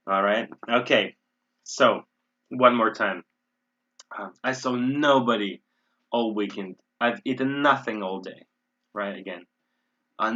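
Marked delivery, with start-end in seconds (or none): 4.4-8.5 emphatic "nobody" and "nothing" in examples; stress on the negatives. Shown as a demonstration. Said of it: "Again, I'm emphasizing this".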